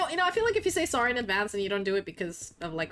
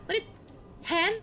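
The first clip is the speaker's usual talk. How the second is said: Scottish; 9 semitones higher than usual. Acted. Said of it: "They always call girls hen".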